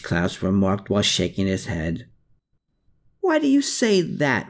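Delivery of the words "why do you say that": growled. A narrator's reading. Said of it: "Riedel growled".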